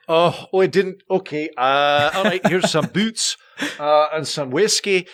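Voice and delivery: lightly flustered Scottish staff; stall, then offer, in a light Scottish accent. Retold or imitated. Distillery staff face an unexpected visitor, flustered light Scottish accent. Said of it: "your Scottish accent was very well done".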